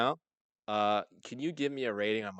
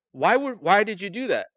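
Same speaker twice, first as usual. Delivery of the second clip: parents asking; 9 semitones higher, 8 dB louder than usual. Retold or imitated. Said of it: "They're like".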